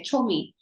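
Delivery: "Chommy" said with a firm ch and falling tune; "Chommy" with the stress on CHOM, falling; South African slang. Shown as a demonstration. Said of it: "you say".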